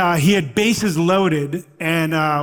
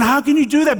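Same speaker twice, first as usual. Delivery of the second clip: high, louder indignant protest; outraged yell; 9 semitones higher, 5 dB louder, faster than usual. Retold or imitated. Fan shouting at the umpire, louder and higher. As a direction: demand an answer from the umpire. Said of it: "I was going".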